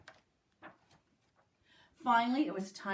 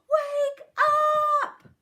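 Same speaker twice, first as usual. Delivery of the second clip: high, loud shouted wake-up; yelling; 10 dB louder than usual. A narrator's reading. Principal yelling at the sleeping girl, loud shout. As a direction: shout it at the top of your voice. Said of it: "yelled at Amy as loud as she could".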